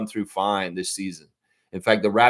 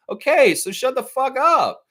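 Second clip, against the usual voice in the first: shut up; 13 semitones higher, 4 dB louder than usual. Real, not acted. Telling critics off.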